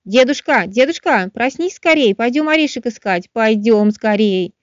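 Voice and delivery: high, eager calling to wake grandpa; impatient excited squirrel. Acted. Squirrel urges oak awake.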